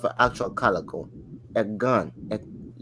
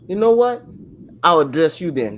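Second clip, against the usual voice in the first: retold comeback shout; 7 dB louder than usual. A rapper snapping back at heckler.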